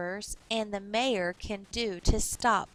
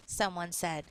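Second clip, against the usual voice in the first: put-on clear, lively reading for children; story narration. A narrator's reading. Teacher reading a storybook aloud to kids. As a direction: read the picture book to young listeners.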